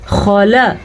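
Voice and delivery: خلا with a thick kha and brief vowels; short, full letters. Shown as a demonstration. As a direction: keep both syllables of خلا short. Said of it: "ان تینوں کو لمبا نہیں کرنا".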